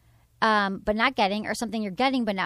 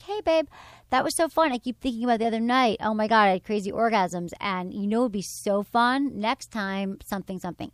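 playful. Pretend. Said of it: "Just be like".

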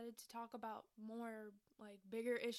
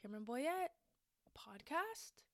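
excited; 4 dB louder than usual. Retold or imitated. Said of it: "you're like".

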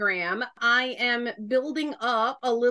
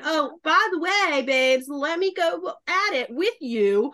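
sassy challenge; 4 semitones higher than usual. Acted. Southern Christian challenging judgmental believers, sassy challenge. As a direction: take them on, scripture for scripture.

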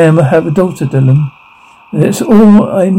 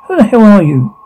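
higher-pitched, startled challenge; startled demand; 5 semitones higher than usual. Acted. Confronting an unknown person, startled and higher-pitched. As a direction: demand it in alarmed surprise.

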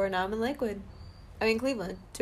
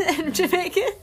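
Jamaican accent attempt. Shown as a demonstration. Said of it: "I can only say, like, "man".

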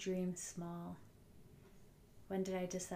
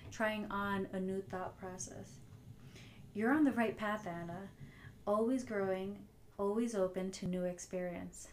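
compassionate self-talk. Retold or imitated. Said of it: "You could hear it in my tone".

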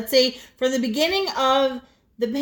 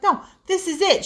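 higher indignant imitation; imitating her high indignant protest; mock outraged; 8 semitones higher than usual. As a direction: act out her pickle outrage. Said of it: "She's like".

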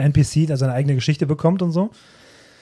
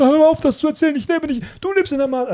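much higher, indignant game character protesting; indignant NPC; 12 semitones higher than usual. Retold or imitated. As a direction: play the offended NPC defending himself, pitched way up. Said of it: "Und dann sagen die". (empörter NPC, viel höher und aufgebracht)

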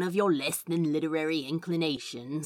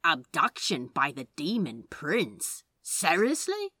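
disbelieving, rising scoff; can't believe the title; incredulous. Acted.

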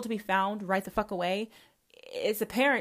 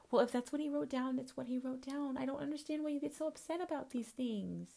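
mock Christian; 5 semitones higher, 10 dB quieter than usual. Voicing a dismissive Christian believer.

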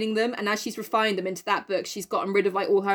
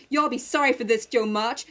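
Amy's voice; 2 semitones higher than usual. Retold or imitated. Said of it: "Amy says".

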